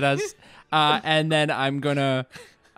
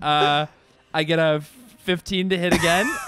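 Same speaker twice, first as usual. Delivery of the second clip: plain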